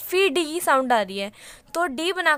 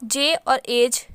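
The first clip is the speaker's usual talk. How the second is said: slow spelled-out demo; 3 semitones lower, much slower than usual. Shown as a demonstration. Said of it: "example ले सकते हैं एज".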